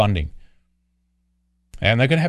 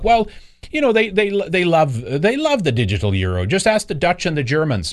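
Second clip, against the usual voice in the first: mock Lagarde voice; 5 semitones higher than usual. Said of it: "she was like".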